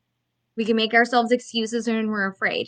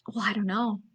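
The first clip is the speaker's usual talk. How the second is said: unsure whisper; whispered reply; 2 semitones lower, 8 dB quieter than usual. Retold or imitated. Coach mimics a timid client, whispering. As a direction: breathe it out like a shy client. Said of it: "client's reluctant reply".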